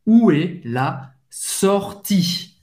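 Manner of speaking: où est la sortie slowly, word by word; slow French model. Shown as a demonstration. Teacher drills où est la sortie slowly. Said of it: "Você vai pronunciar o I".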